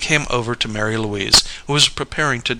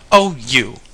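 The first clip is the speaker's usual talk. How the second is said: a sharp little sneer, a bit louder; mild put-down sneer; 5 dB louder than usual. Acted. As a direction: scoff at him with the words. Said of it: "sneered Mary Louise".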